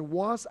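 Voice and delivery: was given slight weight at the end of the clause; stress on was. Real, not acted. Chairman stressing past deficiency to the director, light stress on was. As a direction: lean on the word was to mark the past. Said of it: "and I emphasize the word was".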